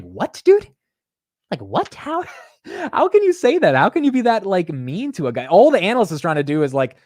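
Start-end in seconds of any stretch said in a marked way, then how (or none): 0.0-5.5 incredulous outburst. Retold or imitated. Investor baffled by a CFO snubbing an analyst, incredulous high outburst. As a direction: pitch jumps high, disbelieving laugh breaking through. Outraged at CFO's rudeness.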